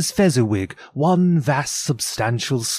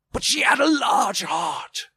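high, eerie ghost voice; high-pitched otherworldly apparition; 9 semitones higher than usual. A narrator's reading. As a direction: speak as a spirit, pitched well above normal. Ghost speaking to Scrooge.

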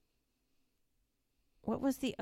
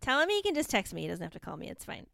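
put-on voice; faster than usual. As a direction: play an overly eager helper. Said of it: "You don't even sound like that".

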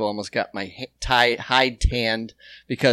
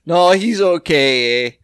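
mock Canadian accent; 2 semitones higher, 5 dB louder than usual. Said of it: "what's an insult in Canada".

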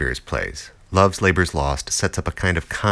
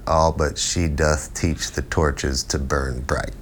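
slow, lofty verse delivery; Shakespearean recitation; 3 semitones lower, slower than usual. Shown as a demonstration. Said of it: "It's the difference between".

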